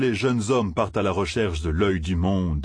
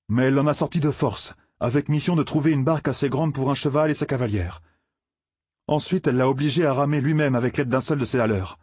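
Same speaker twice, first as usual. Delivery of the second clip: récit un peu plus haut que la narration; apprenti forgeron perplexe; 6 semitones higher than usual. Acted. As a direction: jeune villageois qui rapporte une nouvelle. (apprenti troublé, voix un peu haute)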